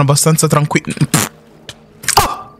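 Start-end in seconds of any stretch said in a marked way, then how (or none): 2.1-2.5 high, frantic alarm; real panic, pitched high; panicked cries. Real, not acted. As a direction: yelp as something attacks you. Attacked by fish in water.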